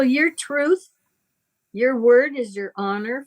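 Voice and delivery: ordinary delivery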